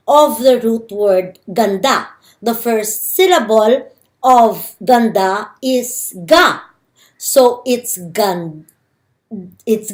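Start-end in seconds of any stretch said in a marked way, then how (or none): 2.4-6.6 slowed down, "ga" lifted and set apart at the end; teacher pointing at the syllable "ga"; slow emphasis on ga. Shown as a demonstration. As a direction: spell out the syllable "ga" deliberately. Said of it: "look at the f- first syllable".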